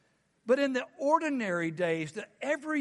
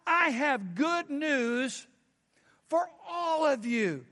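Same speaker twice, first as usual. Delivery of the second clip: angel announcing; 4 semitones higher, slower than usual. Acted. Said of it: "And the angel told them".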